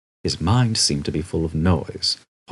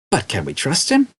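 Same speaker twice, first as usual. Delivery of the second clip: worried Arthur; 8 semitones higher, 4 dB louder than usual. Acted. Arthur voiced.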